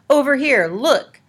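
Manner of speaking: high, loud calling out; shout. A narrator's reading. Morton lures Annabelle toward his flashlight, shouting. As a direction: wave her over with your voice. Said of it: "Morton shouted".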